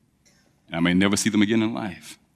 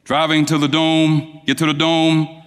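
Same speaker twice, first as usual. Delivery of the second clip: ordinary delivery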